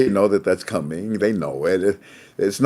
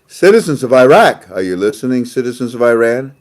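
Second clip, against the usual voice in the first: presidential address; 5 dB louder than usual. Retold or imitated. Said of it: "The President ... America said".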